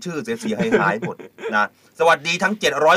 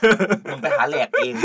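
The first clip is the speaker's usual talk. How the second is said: higher, drawn-out scolding with amusement; hammed-up telling-off, half laughing; mock fed-up vendor; 4 semitones higher, much slower than usual. Host playing a food vendor fed up with a fussy order, mock scolding. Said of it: "สรุปแม่ค้าเครื่องกระทะมา บอก".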